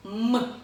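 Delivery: "М" as a brief hummed sound, not the letter name; short letter sound. Shown as a demonstration. Teacher showing children the consonant sound, said short. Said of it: "Коротенько".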